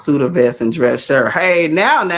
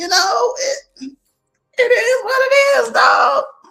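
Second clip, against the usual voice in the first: voice jumping suddenly way up, super high. Talking to someone who may or may not join the panel: voice suddenly super high. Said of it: "My voice just went super super high".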